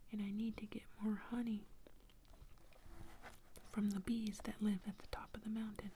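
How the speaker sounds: lightly voiced girl, urgent and imploring; pleading little girl. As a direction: plead your case to the bear. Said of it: "The girl says".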